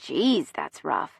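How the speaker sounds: low, soft and drawn out; slow, softened commiseration; sympathetic wince. A narrator's reading. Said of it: "winces in sympathy".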